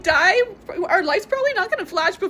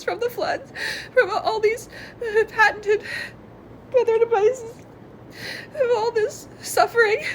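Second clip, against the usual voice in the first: laughing through tears; 2 semitones higher than usual. Real, not acted. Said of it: "laugh cry".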